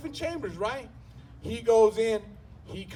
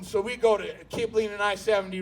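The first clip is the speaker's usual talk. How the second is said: ordinary talk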